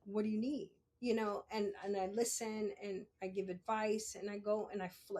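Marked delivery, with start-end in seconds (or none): 0.0-0.7 easy, even, patient question; relaxed offer of help, no push; gentler new manner. Retold or imitated. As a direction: ask it calmly, ready to listen. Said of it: "now it's more along the lines of".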